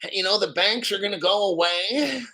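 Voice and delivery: sneering parody of other channels; mock their naive prediction. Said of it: "these other channels".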